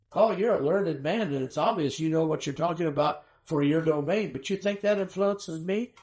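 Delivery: dry mocking jab at a learned man; lightly voiced scornful king; sarcastic. Agrippa mocks Paul's persuasion, a lightly sarcastic retort. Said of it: "Hear the sarcasm?".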